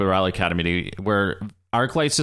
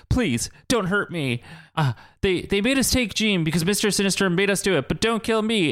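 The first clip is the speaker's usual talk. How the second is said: higher-pitched, lightly frightened begging; mock pleading; 8 semitones higher than usual. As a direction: beg for mercy, half in jest. Acting out Arclight begging for mercy.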